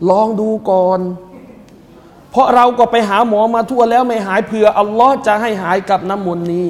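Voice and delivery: soft, hushed wife's plea to her husband; wife pleading softly. Retold or imitated. Wife urging her sick husband, softly pleading. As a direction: coax him gently like a worried wife. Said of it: "จึงบอกกับสามีว่า".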